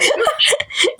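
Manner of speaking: squeaky airy giggle; high breathy laugh. Real, not acted. Laughing at the friend left behind, high airy giggle.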